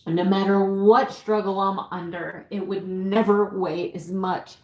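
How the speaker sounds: choked up but holding it together; heartfelt, struggling to keep composure; emotional breakdown. Real, not acted. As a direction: plead through real emotion, pausing to collect yourself. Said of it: "sorry about that emotional breakdown".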